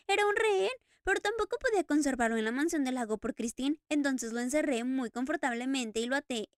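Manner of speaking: the Phantom speaks, tense and urgent; a masked man confessing to an old friend; Eric's voice. Acted. Eric telling the Daroga what he did, urgently.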